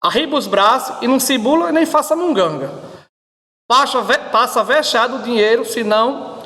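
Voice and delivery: a light Ceará accent on a mock robber; light Ceará accent, mock robbery threat. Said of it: "o assaltante cearense, que diz assim".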